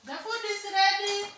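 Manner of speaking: loud high call across the house. Real, not acted. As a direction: shout to call them to dinner. Calling kids to eat.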